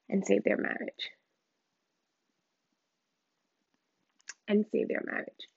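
breathless whisper, pleading; barely getting the words out; whispered prayer. Real, not acted. Praying for the man's wife, a soft whispered plea.

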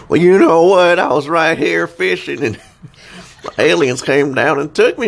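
high, loud redneck abductee impression; redneck guy. Redneck telling how aliens took him while fishing, high hammed-up voice. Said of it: "they always go for that, like, redneck guy".

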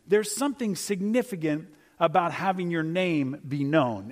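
ordinary talk, nothing marked

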